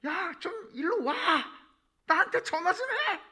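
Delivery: very high, loud calling-out; acted divine shout. God shouting at people who never get in touch, mock yell. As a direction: yell it as if summoning someone far away. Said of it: "하나님이 소리 지르는 거예요".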